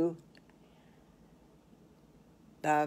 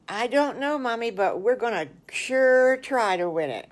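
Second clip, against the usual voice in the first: put-on slightly higher, eager kid voices; hint of little boys; 4 semitones higher, 4 dB louder than usual. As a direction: play the boys, hopeful and keen. Pig boys answer mama.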